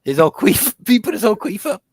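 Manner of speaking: high squealing laugh through words; giggling out the question. Real, not acted. Cracking up at misheard word.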